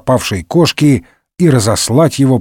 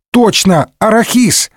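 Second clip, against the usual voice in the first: put-on higher, quick eager boy chatter; eager youth; 6 semitones higher than usual. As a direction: rattle on like an excited lad.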